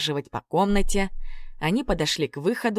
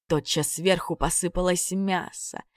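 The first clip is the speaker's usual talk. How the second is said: plain reading voice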